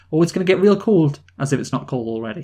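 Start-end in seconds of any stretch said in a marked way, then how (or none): 0.1-1.2 put-on Minnesota accent. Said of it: "funny about it".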